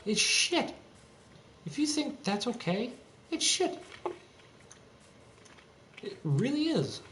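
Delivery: hammed-up high mocking voice; mock critic voice. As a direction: sneer it out like a snooty reviewer. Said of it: "It's like".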